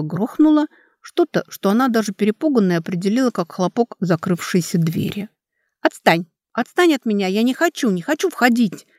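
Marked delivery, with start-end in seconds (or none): 5.8-8.9 panicked pleading, pitched higher; frightened protest. Acted. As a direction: push him away in panic. Girl fights off captor. (испуганно, срываясь)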